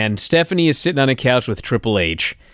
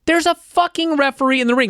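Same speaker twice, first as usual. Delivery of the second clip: exasperated; 13 semitones higher than usual. Retold or imitated. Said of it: "I'm like".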